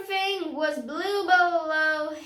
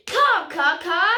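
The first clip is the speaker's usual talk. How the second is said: mock parrot caws, louder; parrot cawing; 5 dB louder than usual. Yellow parrot crying out at Beaky in a mock caw. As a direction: call out like a cawing bird. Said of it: "the yellow parrot cried".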